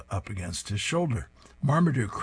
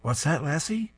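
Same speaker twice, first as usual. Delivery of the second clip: TV announcer; 8 semitones higher than usual. A narrator's reading.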